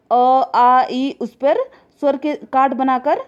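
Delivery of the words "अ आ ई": अ, आ, ई drawn out slowly and a bit louder, each vowel held clearly; sounding out vowels. Shown as a demonstration. Teacher sounding out the vowels अ, आ, ई for the class. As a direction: sound out अ, आ, ई one by one, slow and clear. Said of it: "स्वर के, जैसे".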